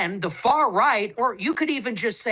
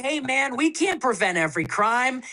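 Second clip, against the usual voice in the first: a hint of a dismissive politician shrugging it off; mock official voice; 2 semitones higher than usual. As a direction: brush it off like a smug bureaucrat. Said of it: "They say".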